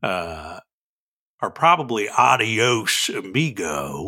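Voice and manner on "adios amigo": slow drawn-out cowboy farewell; lightly voiced cowboy dialect. Shown as a demonstration. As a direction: say it like an old cowboy. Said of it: "I will do this in dialect".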